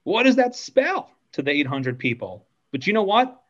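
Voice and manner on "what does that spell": higher, pitched-up yelled question; retold yell. On stage to eight hundred people, hammed-up high yell. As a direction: call it out to the whole auditorium, mock hype. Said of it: "So I yelled out".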